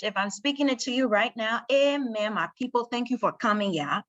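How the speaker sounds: light Liberian English accent. Shown as a demonstration. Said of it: "my Liberian English".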